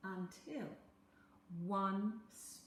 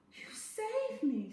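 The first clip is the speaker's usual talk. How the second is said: relieved sigh; 12 semitones higher, 6 dB louder, slower than usual. A narrator's reading. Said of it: "sighed Isabel".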